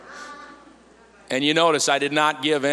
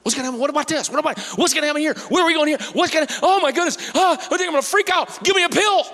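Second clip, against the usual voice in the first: rising to a high, loud, hammed-up panic; preacher acting out a worrier losing it, high panicked yell; mock freak-out; 13 semitones higher, 3 dB louder, faster than usual.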